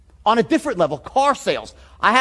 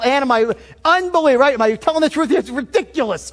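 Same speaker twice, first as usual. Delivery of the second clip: enthusiastic saleswoman; 5 semitones higher than usual. Retold or imitated. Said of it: "enthusiastic as hell".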